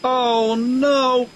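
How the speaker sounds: high, dismayed little engine; mild storybook dismay; dismayed cry. A narrator's reading. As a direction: groan out the disappointment. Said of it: "cried Percy".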